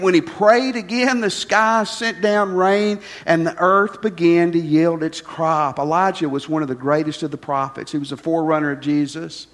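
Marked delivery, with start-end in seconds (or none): 0.0-5.8 forceful scripture reading. Acted. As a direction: proclaim it to the congregation.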